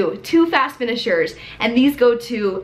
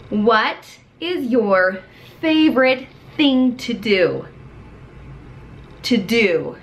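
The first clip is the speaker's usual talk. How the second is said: very slow and drawn out; slow teacher voice; much slower than usual. Shown as a demonstration. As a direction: stretch each word for a young learner.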